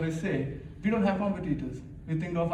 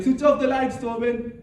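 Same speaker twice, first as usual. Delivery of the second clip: translated mom; 7 semitones higher, 5 dB louder than usual. Retold or imitated. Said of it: "what she meant is like".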